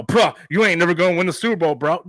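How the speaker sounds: rude dismissal. Retold or imitated. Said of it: "sit there on live stream and go".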